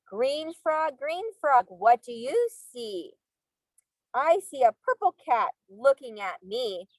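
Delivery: sing-song storybook reading; reading to children. Acted. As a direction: read aloud to little kids. Reading picture book to class.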